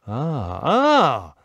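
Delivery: sharp high surprised exclamation, not angry; startled old sheikh crying out; surprised gasp of an old chieftain; astonished cry. Acted. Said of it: "tonem raczej zdziwionym niż zagniewanym".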